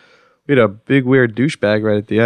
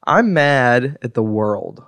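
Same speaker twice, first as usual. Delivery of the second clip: slow mock rant; much slower than usual. Real, not acted. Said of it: "The rant is over".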